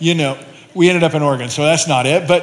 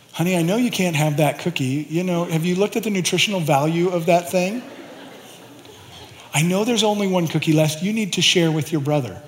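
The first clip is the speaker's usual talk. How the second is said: put-on parent soothing toddler; 6 dB quieter than usual.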